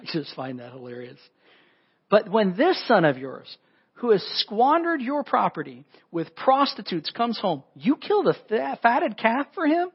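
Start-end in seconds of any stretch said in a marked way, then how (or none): 2.1-9.9 high, loud and whining, slowing at the end; older brother whining to his father about the calf; whiny kid. Acted. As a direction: complain like a spoilt child. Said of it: "he kinda turns into a whiny kid".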